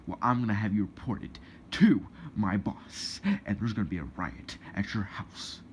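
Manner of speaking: lightly voiced indignant protester; complaining protester. Protester threatens to get him reported, lightly mocking. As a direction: mimic a protester making threats.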